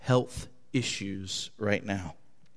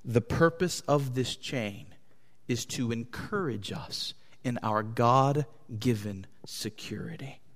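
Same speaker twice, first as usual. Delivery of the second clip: the sentence sinks softer and softer until "security" is only whispered; fading to a whisper; 3 semitones lower, 7 dB quieter than usual. Real, not acted. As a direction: let it drop away to a breath on "security". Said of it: "just to be clear".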